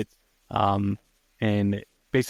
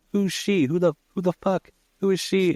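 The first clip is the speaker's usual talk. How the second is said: high-pitched mock panic; imitated freaking out; 8 semitones higher than usual. Host voicing a trapped man questioning his cellmate, mock freak-out. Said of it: "So he's freaking out".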